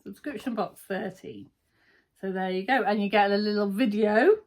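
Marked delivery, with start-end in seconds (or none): 0.0-1.5 softer, offhand second reading of the name; quiet repeat. Shown as a demonstration. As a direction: say it again under your breath. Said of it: "is there, for fabric?".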